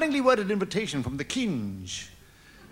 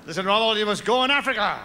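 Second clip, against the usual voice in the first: mock Hitler; 5 dB louder, faster than usual. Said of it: "Enter Adolf Hitler".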